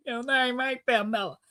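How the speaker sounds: "Pamela" said pa-MELL-a; Spanish-style pronunciation. Retold or imitated. Mama rejecting the name, "Pamela" as pa-MELL-a. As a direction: stress the middle of "Pamela", pa-MELL-a. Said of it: "She said".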